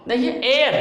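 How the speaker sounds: एयर said as "एयर", silent h; teacher models एयर without h; say heir right. Shown as a demonstration. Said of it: "इसको एयर पढ़ेंगे". (एयर को बिना ह के बोलना)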